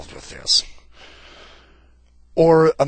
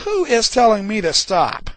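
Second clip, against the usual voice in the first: indignant question; 8 semitones higher, 6 dB louder than usual. Retold or imitated. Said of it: "Abraham stops and goes".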